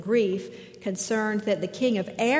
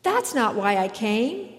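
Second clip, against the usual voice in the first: louder, indignant protest; offended refusal; 5 dB louder than usual. Retold or imitated. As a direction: Naaman brushes off the prescription, indignant. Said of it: "Naaman is offended by this prescription".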